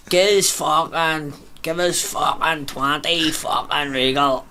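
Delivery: put-on slow, slurred drunk demand; lightly voiced slow drunk ordering cigarettes. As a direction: drag it out like a drunk. Drunk man ordering at hatch.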